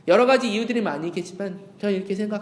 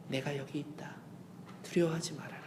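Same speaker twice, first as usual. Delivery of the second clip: soft reassurance; 6 semitones lower, 14 dB quieter than usual. Acted. Voicing God softly.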